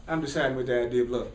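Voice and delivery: low, quick, unruffled reply; calm counter-answer. Acted. Speaker answers the inner critic, siding with love, calm counter-answer.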